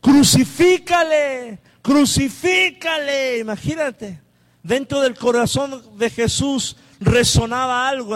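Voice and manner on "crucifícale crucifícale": slow, loud mob chant; crowd shouting. Retold or imitated. Preacher voicing the mob demanding crucifixion, slow loud shout. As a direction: drag out the cry like an angry crowd. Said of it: "volvieron a dar voces diciendo".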